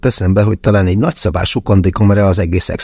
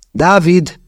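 much higher call of the name; Mia calling; 10 semitones higher than usual. A narrator's reading. Mia joins calling David toward the house, much higher. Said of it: "szállt be Mia is".

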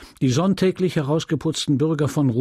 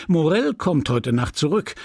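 a touch higher, a lightly acted sudden idea; mild exclaim; 5 semitones higher than usual. Leon inventing an excuse to Emma, mild sudden exclaim. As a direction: slap the forehead and call it out, understated. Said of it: "schlug er sich an die Stirn und rief".

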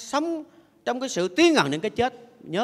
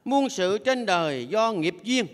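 ngân chậm từng chữ; ngâm như câu kệ; ngâm thơ; slower than usual. Acted. (giọng ngâm thơ chậm)

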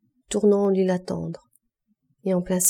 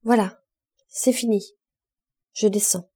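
calling down. A narrator's reading. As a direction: shout down cheerfully from the roof. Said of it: "Il cria à Gervaise".

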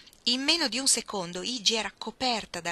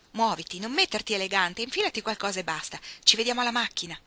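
impatient Iggy; 3 semitones higher, 5 dB louder than usual. Acted. Iggy rushing Ruth out of bed, lightly voiced mock threat. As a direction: hurry her along with mock drama.

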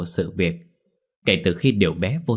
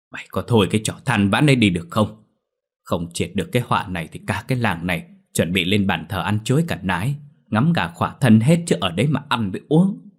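angry shout. Acted. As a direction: snap at a whining man to stop. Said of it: "miệng quát lớn".

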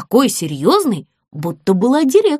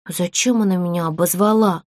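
tearful; 3 semitones lower, 3 dB quieter than usual. Acted. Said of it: "заплакала Бекки".

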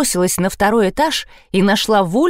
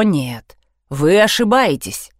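usual speaking voice

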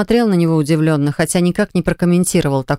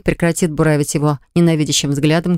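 usual speaking voice

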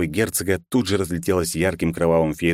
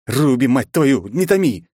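impatient yell; 8 semitones higher, 5 dB louder, slower than usual. Acted. Hero yells at Ruby.

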